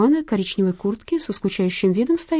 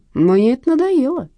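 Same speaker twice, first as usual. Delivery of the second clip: louder, clipped threat through the teeth; 6 semitones higher, 5 dB louder than usual. A narrator's reading. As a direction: thug losing patience with debtor. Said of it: "процедил Рустам".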